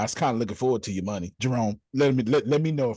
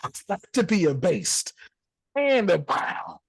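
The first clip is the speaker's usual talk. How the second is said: scripture recital; 8 semitones higher, slower than usual. Acted. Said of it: "King James Version".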